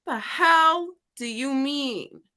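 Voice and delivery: high, slow, disbelieving friend; mock incredulous friend. Friend hearing about her hometown, slow high disbelief. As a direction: drag it out like you can't believe it. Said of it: "And she's like".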